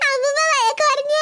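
wailing complaint through sobs; crying child. Acted. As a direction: bawl out a tearful tattle. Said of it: "Paru, കരയാതെ മോളെ".

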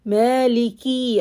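Maliki ending on a long ee; wrong final ya. Shown as a demonstration. Teacher demonstrating the added ya mistake. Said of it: "don't say Maliki".

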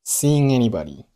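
seeing anybody run together as one word; linked seeing anybody. Shown as a demonstration. Teacher demonstrating linking seeing anybody. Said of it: "连读成了".

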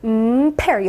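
lips held shut, then burst into "pear"; popped P. Shown as a demonstration. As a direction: hum 음, then pop the P of "pear". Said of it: "여기서 팍 터트려주세요".

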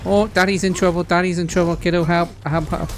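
mock-distressed cry for rescue; calling for help. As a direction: call out urgently to your little helper. Calling game companion for help.

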